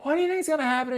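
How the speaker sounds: high mock alarm; shocked viewer. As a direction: play a horrified viewer, shrieking high. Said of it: "if you're like".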